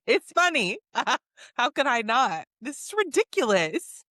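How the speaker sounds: laughing, voice lifted in mock protest; amused protest. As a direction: retell it while giggling. Quoting Julia who can't stop laughing.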